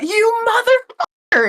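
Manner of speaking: high-pitched acted yell; furious shout. Kat going straight for him, furious high shout. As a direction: shout it in outrage, voice leaping up. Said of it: "she's literally just gonna shout".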